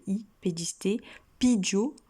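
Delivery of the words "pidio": "pidio" higher and louder, final O stressed; accent on O. Shown as a demonstration. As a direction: punch out "pidio" with the accent on its last O. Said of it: "accent sur le O". (« pidio » plus haut et plus fort, accent sur le O final)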